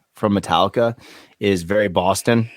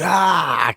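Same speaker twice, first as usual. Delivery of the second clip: mock rampage yell; 6 semitones higher than usual. Acting out rockstar smashing gear.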